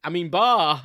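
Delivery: loud, laughing correction to a sheep's bar; amused mock bleat fix; giggly self-correction. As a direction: catch yourself, giggling, and baa instead. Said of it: "I'm like".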